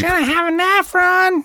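high, loud mock Queens accent; hammed-up sitcom New York wife. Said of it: "That's a good, good accent".

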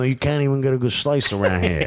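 put-on lightly done Jersey accent; Bob Bradley. American coach griping in Wales, mock Jersey accent. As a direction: grumble in a joking Jersey accent. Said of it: "knocked the Jersey accent out".

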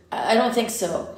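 shaky, stammering frayed voice. Acted. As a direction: voice fraying with worry. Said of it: "his voice frayed".

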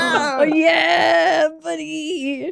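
high, whooping cheer; excited cheer. Real, not acted. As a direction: cheer a teammate on. Cheering teammate's roll.

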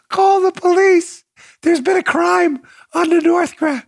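high, loud laughing cry for the police; barely getting words out through laughter; laughing outburst. Real, not acted. Host cracking up over the clip, laughing loudly. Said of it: "I'm crying".

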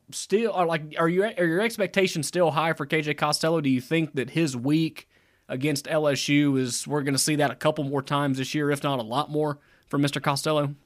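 slightly out of breath; talking short of breath. Real, not acted. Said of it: "Are you out of breath".

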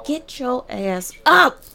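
shouting at her kid to get up, half-acted; retold yelling mom. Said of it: "she comes in my room screaming".

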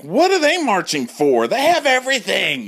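high, bitchy scoff; gay men scoffing at marchers; catty gays. Retold or imitated. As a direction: sneer it jealously. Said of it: "And the gays are like".

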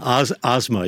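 Asma said with an open AH, "AHZ-ma"; correct surname pronunciation. Shown as a demonstration. Co-host repeating his name on request, proper pronunciation. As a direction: open the first vowel of Asma to AH. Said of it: "Should be Asma".

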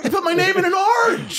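high laughing amazement; childlike amazement. Retold or imitated. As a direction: squeal like a kid at a magic show. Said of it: "I'm like a four-year-old watching magic".

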